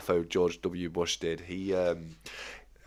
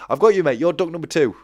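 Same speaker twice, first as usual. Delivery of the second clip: higher, louder, bright reassurance; eager reassurance; 10 semitones higher, 10 dB louder, faster than usual. Real, not acted. Streamer calls out reassurance to a worried viewer, louder and higher. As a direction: reassure them loudly and eagerly.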